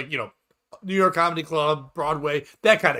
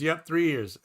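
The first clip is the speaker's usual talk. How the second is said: wife's agreement; 4 dB quieter than usual. Acted. Wife confirming her husband's answer to the comedian, lightly acted quieter reply. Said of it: "And she goes".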